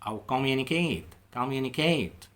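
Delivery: communicate stretched out slowly; model pronunciation. Shown as a demonstration. Teacher contrasts verb communicate with the noun, slowly. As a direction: sound out communicate carefully. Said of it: "يتواصل as a verb".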